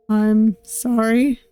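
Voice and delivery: slow, hushed apology; a hint of a pained kidnapper, slowly; apologetic captor. Kidnapper apologizing to his frightened captive, slow and pained.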